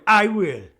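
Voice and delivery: loud, high imitated comeback; sudden hammed-up yell; mock yelled retort. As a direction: fire it back in a mock shout. Acts Meredith's yelled retort.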